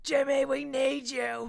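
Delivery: loud, slow summoning call. Pretend. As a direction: summon him like a hero. Calling out to absent friend.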